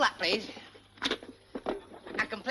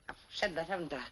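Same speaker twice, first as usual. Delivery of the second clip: ordinary talk, nothing marked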